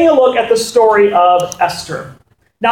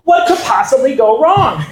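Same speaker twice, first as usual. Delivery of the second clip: ironic; 2 semitones higher than usual. Real, not acted. Ironic setup before drunk king.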